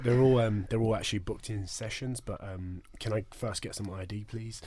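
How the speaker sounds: quiet mock-official Australian accent; Aussie receptionist asking for ID; soft put-on Australian voice. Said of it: "I actually love your Australian accent".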